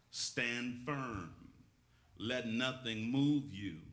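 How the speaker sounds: slow, measured Bible reading; scripture reading. Acted. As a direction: read the verse solemnly, phrase by phrase, with pauses. Reads the Bible verse aloud.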